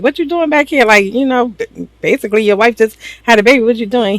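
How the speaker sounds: incredulous questioning. Retold or imitated. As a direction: question him as a baffled brother would. Voicing brother questioning the new father.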